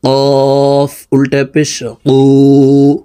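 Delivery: কু with the tongue root against the upper palate; কফ articulated far back in the mouth; deep qaf sound. Shown as a demonstration. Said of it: "জিহ্বার গোড়া তার বরাবর উপরের তালুর সঙ্গে".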